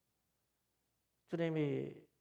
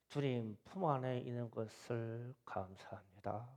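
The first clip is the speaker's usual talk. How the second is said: quiet prayer; 5 semitones lower than usual. Retold or imitated. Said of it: "이랬어".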